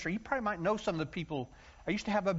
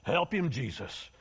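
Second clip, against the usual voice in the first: church lady plea; 3 semitones lower, slower than usual. Retold or imitated. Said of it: "the ladies take their hankies".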